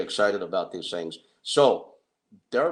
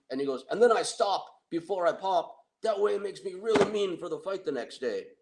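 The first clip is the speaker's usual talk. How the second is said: boastful Tony voice; 6 semitones higher than usual. Retold or imitated. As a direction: play the proud, dim fighter. Tony explains his pre-fight ritual.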